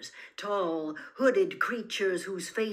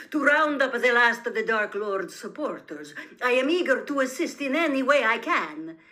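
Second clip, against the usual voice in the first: eager pleading that grows louder and higher; a frightened prisoner fawning, building to loud; scared but oily, pushing harder to please; scared, unctuous; 4 semitones higher, 7 dB louder than usual. A narrator's reading. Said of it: "his voice was very scared".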